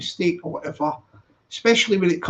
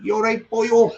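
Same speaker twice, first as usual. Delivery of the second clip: playful imitated Valleys Welsh greeting; mock Welsh accent; 3 semitones higher, 4 dB louder than usual. Streamer greeting his Welsh channel regular, mock Welsh accent. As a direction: put on a light Welsh lilt. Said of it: "I talk to him like this".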